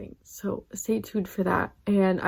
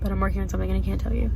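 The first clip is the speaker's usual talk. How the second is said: rattled off fast, mocking a YouTuber tease; rushed mock teaser voice; fast YouTuber parody; 3 semitones lower, much faster than usual. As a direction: gabble it like a clickbait YouTuber. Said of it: "one of those YouTubers who's like".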